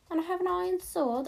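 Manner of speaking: high and loud, a goofy put-on voice; silly put-on voice. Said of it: "I don't know why I'm talking like this".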